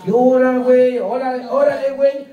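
put-on teasing Mexican accent; mock Mexican accent. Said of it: "El acento mexicano".

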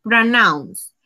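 very drawn out; teacher reading the prompt aloud; slow prompt read. Shown as a demonstration. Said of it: "Y dice".

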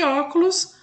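teacher's demo of "óculos", "ó" strongest; stress on first syllable. Shown as a demonstration. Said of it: "acento no O".

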